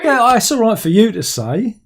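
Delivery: real laughter in a playful retort; laughing retort. Real, not acted. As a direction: toss it back through laughter. Laughing back at co-host.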